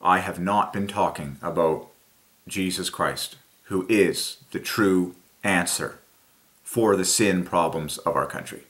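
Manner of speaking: a hint of a broken-down leader apologizing on TV; quietly choked public apology; tearful confession. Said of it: "broke down in tears and said".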